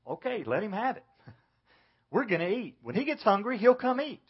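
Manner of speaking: lightly voiced unbothered parent, pitch climbing; mock dismissive parent. Parent responding to a child's tantrum at dinner, mildly dismissive.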